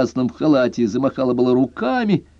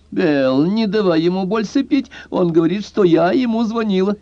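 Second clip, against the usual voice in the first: put-on higher, whiny girlish voice; offended plea; 9 semitones higher than usual. A narrator's reading. Tipsy girl complaining to her friend, higher and whiny. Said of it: "обиженно попросила".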